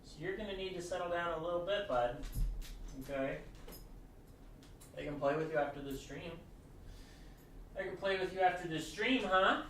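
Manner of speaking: soft, hushed talk to the pet; calm the pet down under the breath; soft murmured reassurance; quiet aside to pet. Real, not acted. Quietly soothing pet off mic.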